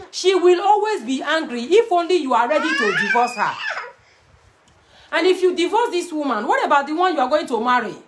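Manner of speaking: laughing through the advice; teasing laugh as she warns. Real, not acted. Laughing while advising.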